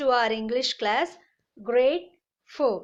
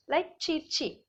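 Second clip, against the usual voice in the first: put-on peeping baby chick; 5 semitones higher, slower than usual. Shown as a demonstration. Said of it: "that baby sounds".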